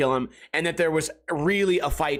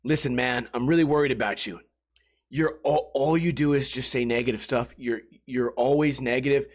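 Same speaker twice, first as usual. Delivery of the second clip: concerned; 6 semitones lower than usual. Retold or imitated. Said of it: "where they go".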